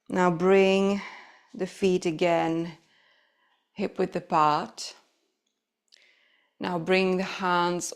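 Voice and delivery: low, unhurried yoga-teacher voice with long pauses; guided breathing meditation. Acted. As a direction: guide them gently into noticing the breath.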